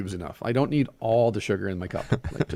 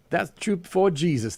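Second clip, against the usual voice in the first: higher voice, fervent agreement; effusive old woman; 6 semitones higher than usual. A narrator's reading. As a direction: testify to it like a flattering old woman. Old woman flattering her, voiced.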